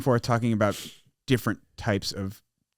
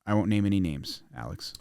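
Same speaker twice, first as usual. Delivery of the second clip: teasing whisper; whispered jab at a friend; 3 semitones lower, 6 dB quieter than usual. Real, not acted.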